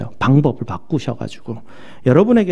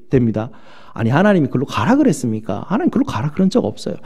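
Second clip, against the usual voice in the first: ordinary delivery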